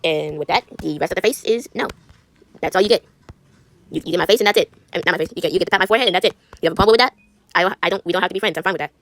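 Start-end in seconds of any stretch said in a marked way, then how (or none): 5.3-7.1 mock defiant. Défi taquin adressé à l'amie.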